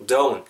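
"don't" as a rounded "doh-oon"; "don't" with u-glide. Shown as a demonstration. Teacher modelling for learners, "don't" with an oo sound inside. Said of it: "약간 이렇게 우 사운드 들어가는 거예요".

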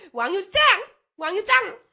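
high fangirl squeal; mock fan cheer. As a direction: chant it like a gushing fan. Mocking fans cheering a character. (극성팬처럼 높게 외치기)

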